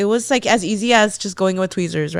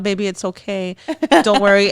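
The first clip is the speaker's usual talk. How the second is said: calming. Retold or imitated. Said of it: "I'm trying so hard to calm her down".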